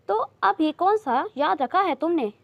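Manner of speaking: sharp retort. Acted. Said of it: "बड़ी अम्मा चुप रहने वाली नहीं थी".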